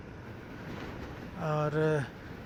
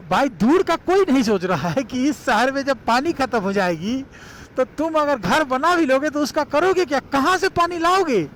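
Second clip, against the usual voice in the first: frustrated rant; 4 semitones higher, 3 dB louder than usual. Real, not acted. Heated rant about the water crisis.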